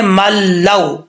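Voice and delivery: मल लौ joined slowly, no nasal hum; idgham without ghunna. Shown as a demonstration. Teacher shows how to join मल लौ, slow. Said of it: "सादा अल्फाज में कैसे पढ़ेंगे".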